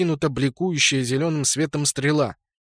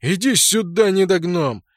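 angry yell; 5 semitones higher, 3 dB louder than usual. A narrator's reading. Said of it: "возмущённо заорал".

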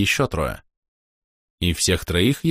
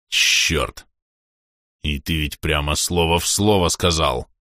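frightened curse; 3 semitones lower, slower than usual. Acted. Испуганный полуорк ругается.

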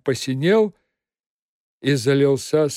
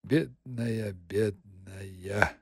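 low, soft pitying murmur; mumbling softly; 6 semitones lower, 10 dB quieter, much slower than usual. A narrator's reading. Master comforting Margarita, soft pitying mumble. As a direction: murmur it tenderly to her. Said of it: "стал бормотать".

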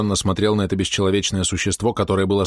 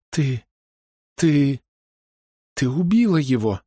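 high, halting accusation; stammering horror; 7 semitones higher, slower than usual. Acted. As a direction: stumble on each ты. (Ида запинается в ужасе)

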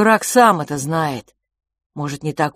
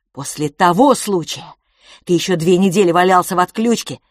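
louder, pleading to be believed; louder, heated plea to his twin; heated insistence; 4 semitones higher, 6 dB louder than usual. A narrator's reading. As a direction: push hard, desperate to convince. Brother insists during heated argument.

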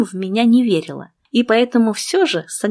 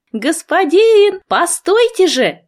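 much higher, louder call; 9 semitones higher, 4 dB louder, slower than usual. A narrator's reading. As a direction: shout after him to stop. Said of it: "мне кричать".

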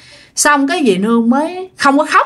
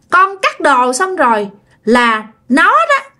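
put-on higher childlike telling; child voice; 5 semitones higher than usual. Ghost child telling mother where the scissors are, child voice. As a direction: tell it like an excited little kid. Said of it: "cái giọng con nít".

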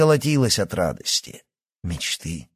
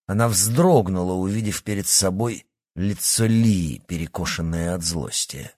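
usual speaking voice

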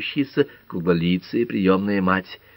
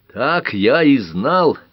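raised, drawn-out exclamation; crying out; 7 semitones higher, 5 dB louder, much slower than usual. A narrator's reading. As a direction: call it out as an accusation. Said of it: "крикнул Дэви". (выкрикнуть, повысив голос)

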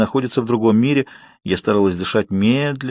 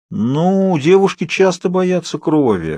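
sighing sagely; 7 semitones higher, slower than usual. A narrator's reading. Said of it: "глубокомысленно вздохнула санитарка".

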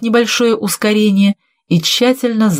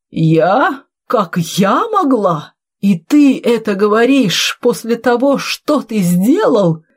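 slow, drawn-out indignation, rising higher; indignant retort; 5 semitones higher, slower than usual. Acted. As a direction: throw the question back, outraged. Old woman throws reproach back. (возмущённо, растягивая слова)

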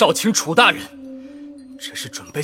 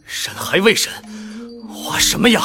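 indignant retort; 7 semitones higher than usual. Acted. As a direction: push back in outrage. Prisoner refuses to sign confession.

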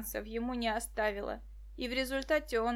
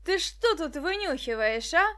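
higher, louder menacing demand; angry interrogating snarl; 5 semitones higher, 7 dB louder than usual. Acted. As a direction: threaten the caught boy. Villain catches spying boy.

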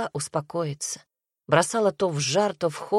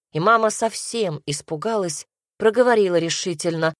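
usual speaking voice

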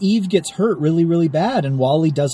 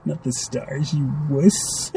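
devil voice; 4 dB quieter, much slower than usual. Acted. Devil voice joke.

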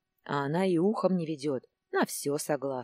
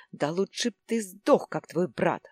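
yelling; 3 semitones higher, 4 dB louder than usual. A narrator's reading. Lena screaming at her husband about his dead brother, yelling. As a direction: scream it at him to wound. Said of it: "орала Лена".

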